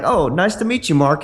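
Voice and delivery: put-on high, friendly girl voice; imitated women greeting.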